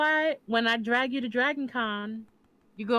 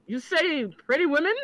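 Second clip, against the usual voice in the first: mock perked-up ears; 7 semitones higher than usual. Teasing her friend about his ears perking up at pretty women. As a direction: play the eager perked-up listener.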